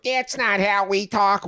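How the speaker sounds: high, slow, whiny mimicry; exaggerated high-pitched protest; mock complaint. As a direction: imitate indignant fans in a high drawn-out voice. Mimicking offended fans' complaint.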